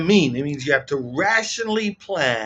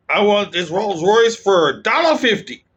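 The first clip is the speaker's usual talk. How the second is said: put-on light Texan accent, a bit higher and louder; 4 semitones higher, 3 dB louder than usual. Caller quoting Trump's lowball offer in a light Texan accent. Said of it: "I'm giving him a bit of a Texan accent".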